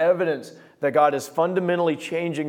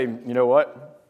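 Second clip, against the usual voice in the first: gentle reply; 3 semitones lower, slower than usual. Acted. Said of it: "you're gonna have a gentle".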